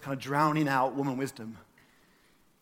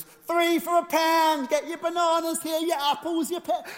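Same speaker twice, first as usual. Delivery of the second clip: loud, high-pitched street seller's cry; market trader's yell; 8 dB louder than usual. Acted. Preacher imitating the market man calling people over, loud yell. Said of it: "he starts yelling out".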